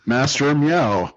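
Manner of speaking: slow "Master Meow", meow drawn out; bad movie dubbing. Shown as a demonstration. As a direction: dub it badly, like a cheap overdub. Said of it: "badly dub over it".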